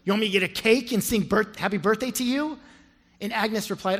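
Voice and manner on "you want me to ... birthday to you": a sharp, mocking retort, a little louder and higher; snapping back. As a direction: scoff at her like a rude friend. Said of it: "her friend snapped back".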